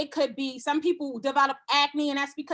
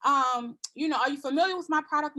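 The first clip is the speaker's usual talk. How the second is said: friendly consultant. Shown as a demonstration. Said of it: "every single person who comes to me".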